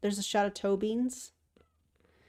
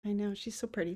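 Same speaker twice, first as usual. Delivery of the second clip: quiet; 6 dB quieter, faster than usual. Real, not acted. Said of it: "Let me be quiet so you can hear some purrs".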